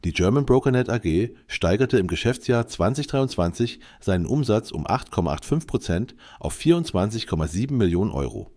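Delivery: AI-generated news read; steady computer newsreader voice; synthetic voice. Real, not acted. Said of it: "mit der synthetischen Stimme". (synthetische Nachrichtenstimme)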